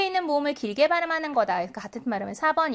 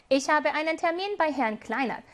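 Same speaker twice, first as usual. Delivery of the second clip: slow German read; much slower than usual. Shown as a demonstration. Teacher reads German example sentence.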